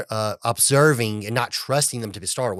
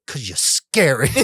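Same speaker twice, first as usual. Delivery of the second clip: mock scared shout. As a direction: blurt it out like a frightened servant. The housekeeper's answer, then laughter.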